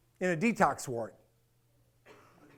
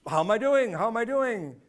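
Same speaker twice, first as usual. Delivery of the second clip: incredulous repeat; 3 semitones higher than usual. Retold or imitated. Patient retelling how absurd the question was, incredulous. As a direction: toss the question back in disbelief. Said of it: "I'm like".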